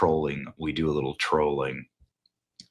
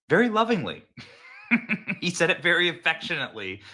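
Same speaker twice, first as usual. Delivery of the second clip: excited; 11 semitones higher than usual. Real, not acted. Host gushing about Trump's tone.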